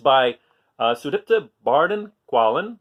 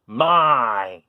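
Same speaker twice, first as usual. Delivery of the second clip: grumpy demo; 4 semitones lower, 5 dB louder than usual. Shown as a demonstration. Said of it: "look at what happens with my face when I say".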